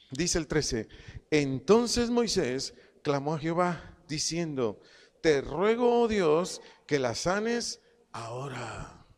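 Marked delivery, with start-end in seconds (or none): 1.3-9.1 reading aloud. Acted. Preacher leads congregation through Moses' plea, reading aloud. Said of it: "leer conmigo en voz alta".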